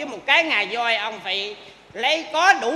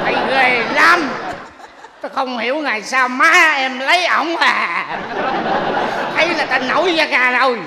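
loud complaint; 5 dB louder than usual. Acted. Groom complains about father.

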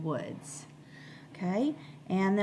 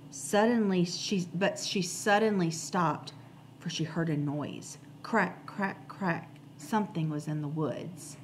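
storytime reading with suspense on the cracks; reading to children. A narrator's reading. Teacher reading the class chapter book, storytime voice.

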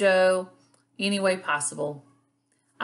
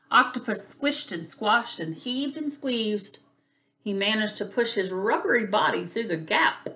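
animated picture-book narration, stretched key words; lively, expressive storybook reading; reading to children. A narrator's reading. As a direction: read it like storytime for little kids.

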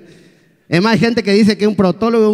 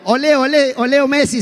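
excited; 7 semitones higher than usual. Real, not acted. Announces the song, fired up.

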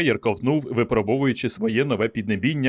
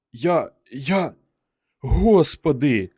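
slow, stunned exhale of words; breathed out; 4 semitones higher, much slower than usual. A narrator's reading. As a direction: let it out on a breath of awe. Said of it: "видихнув Фелдман".

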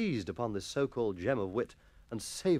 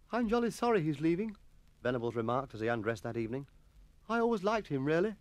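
schoolboy voice; 4 semitones higher than usual. Acted. Boy character voice.

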